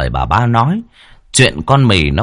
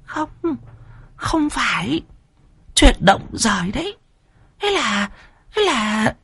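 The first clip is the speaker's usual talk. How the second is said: panting, higher and softer; out of breath; 6 dB quieter than usual. Acted. Third wife panting, too shaken to explain. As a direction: gasp the words out between breaths. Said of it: "thở hổn hển".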